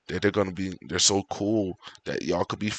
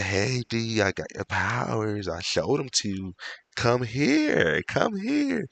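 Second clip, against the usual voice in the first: coaxing alien voice; 3 semitones higher, slower than usual. Retold or imitated. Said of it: "won't be like".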